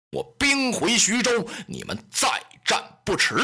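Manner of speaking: a lightly voiced warlord laying down terms; Lü Bu's voice. Lü Bu announces the archery test.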